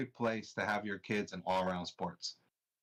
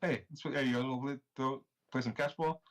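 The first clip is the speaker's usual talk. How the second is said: mock invitation; 3 semitones higher than usual. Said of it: "should be called catchball".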